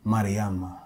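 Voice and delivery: spoken-word ending, each name set apart; poem performance. Acted. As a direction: close the poem on a measured, repeated name. Poem's closing repeated name.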